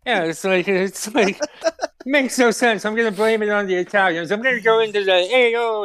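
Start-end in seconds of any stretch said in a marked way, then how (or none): 5.1-5.8 mock Italian-American call. Blaming it on the Italians, mock Italian voice. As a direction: throw out a quick Italian "hey, oh". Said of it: "Italian voice and say".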